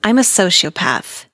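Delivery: mock evil. Teen narrator opening her story with a mock sinister confession. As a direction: draw it out like a movie villain confessing. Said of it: "that sounded evil".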